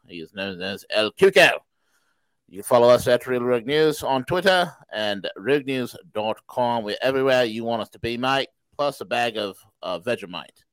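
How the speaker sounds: mock Aussie host patter; Australian accent. Host plugging the show with Vegemite, mock Aussie accent. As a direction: keep up a put-on Australian accent.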